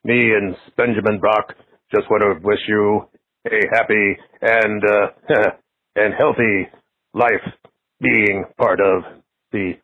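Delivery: a hint of a ghoulish TV horror host greeting a fan; Doctor Paul Bearer impression. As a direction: horror host voicemail to Derek, mild spooky impression. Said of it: "I did a spot-on impression of Doctor Paul Bearer".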